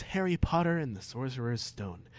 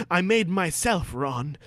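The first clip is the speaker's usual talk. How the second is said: mock firm Harry; 5 semitones higher than usual. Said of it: "Harry said firmly".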